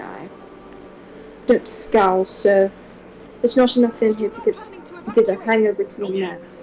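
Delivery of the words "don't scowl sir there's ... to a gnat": put-on half-hearted Scottish accent, barely there; a faint stab at a Scottish accent that fades; a hint of a Scottish butler's accent; Angus, failed Scottish accent. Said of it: "I can't do a Scottish accent".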